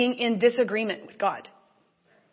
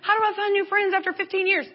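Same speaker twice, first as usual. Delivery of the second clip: acted-out anxious rant; freaking out. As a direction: work yourself up from uneasy to frantic. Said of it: "Do you hear me freaking out".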